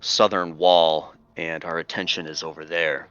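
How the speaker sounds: slow, rasping voice to fool a guard; gravelly raspy voice. Acted. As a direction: rasp it out slowly, gravelly and rough. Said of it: "kinda, like, raspy voice".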